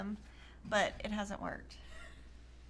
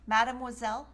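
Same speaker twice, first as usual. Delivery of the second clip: Mademoiselle said louder, rising, mwa sound; louder showy French Mademoiselle; repeating louder and sillier; 4 dB louder than usual. Shown as a demonstration. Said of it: "Say it louder".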